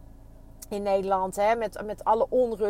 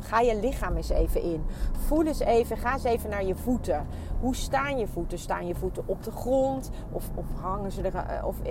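guided body scan. Acted. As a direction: lead them gently from feet to head. Guides listeners through body scan.

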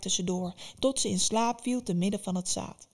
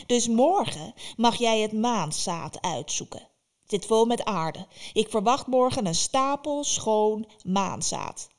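Baba Yaga; 2 semitones higher, 4 dB louder than usual. Acted. Baba Yaga sets Vasilisa tomorrow's task, in a commanding witch voice. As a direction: lay down the law like a demanding witch.

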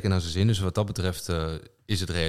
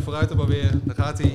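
drumroll hype; 6 semitones higher, 4 dB louder than usual. Pretend. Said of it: "een roffelgeluidje".

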